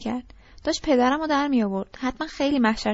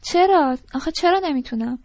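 loud, indignant acted challenge; raised-voice protest; 4 semitones higher, 5 dB louder than usual. Young man challenging his date's refusal, voice raised in protest. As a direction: demand why, louder and higher at first. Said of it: "داد نزن لطفاً".

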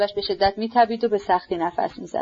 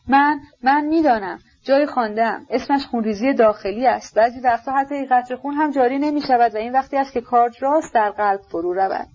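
eager, tripping over his words; excited stammering; 5 semitones higher than usual. Acted. Prince blurting what he has read, excited stammer. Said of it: "با هیجان بسیار تپه تپه کنان گفت".

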